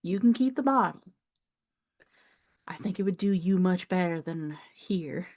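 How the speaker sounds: lightly voiced older Southern farm woman; a hint of a proud Southern elder; proud elderly countrywoman. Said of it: "like, elderly woman who has pride".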